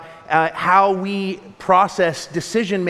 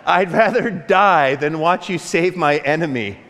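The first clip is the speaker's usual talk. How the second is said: laughing paraphrase. Retold or imitated. The speaker's paraphrase of Jonah's complaint.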